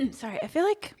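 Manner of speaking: throat catching, frog in throat; rough frog in the throat, clearing. Real, not acted. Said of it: "I have a froggy in my throat".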